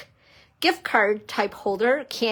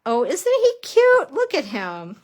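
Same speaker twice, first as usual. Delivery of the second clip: high, bright gushing over something cute; delighted coo; 5 semitones higher, 4 dB louder than usual. Real, not acted. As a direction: gush over it like a puppy. Cooing over cute stamp.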